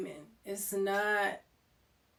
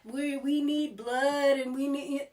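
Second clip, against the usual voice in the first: mocking fake witches; 5 semitones higher, 6 dB louder than usual. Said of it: "It's not".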